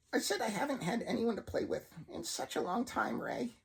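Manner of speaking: menacing voice with a laugh in it; creepy puppet laugh-talk. Acted. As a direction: tease him like a predator. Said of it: "voice noticeably began to deepen and echo".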